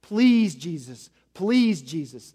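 mock pleading demon, lightly voiced; begging demon. Demon begging Jesus not to send them away, mock pleading. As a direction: plead over and over, half-acted. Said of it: "He's not stopping in his begging".

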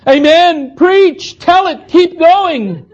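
high, loud shouted amens. Retold or imitated. Congregation drowning out the preacher, loud high shouts. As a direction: shout them back as a challenge. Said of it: "they got faster, along with being louder".

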